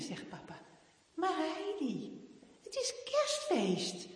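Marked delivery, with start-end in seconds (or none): 1.1-4.1 higher, louder, laughing dad voice; a father beaming about Christmas; dad cheering up his daughter, laughing; cheerful father. Acted. Papa cheers Heidi up.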